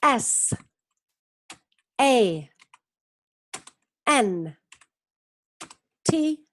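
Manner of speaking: each letter said slowly and clearly; S, A, N, T, O, N, E spelt out one by one; spelling out letters. Shown as a demonstration.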